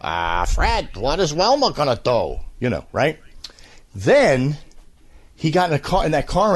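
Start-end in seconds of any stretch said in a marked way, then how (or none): 0.0-2.4 dumb twangy voice. Retold or imitated. Demoing Mel Blanc's first dumb Barney voice. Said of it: "and he talked like this".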